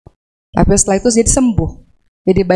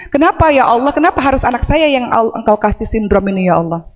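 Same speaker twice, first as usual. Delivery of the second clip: angry complaint; 2 semitones higher than usual. Shown as a demonstration. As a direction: show how anger at God sounds. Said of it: "kalau marah nih kira-kira begini bunyinya".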